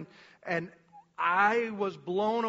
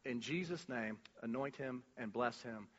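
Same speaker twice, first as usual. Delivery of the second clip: much softer, offhand prayer; lazy prayer; 8 semitones lower, 13 dB quieter than usual. Retold or imitated. Preacher mocking a lazy prayer from his seat, offhand. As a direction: toss off the blessing lazily.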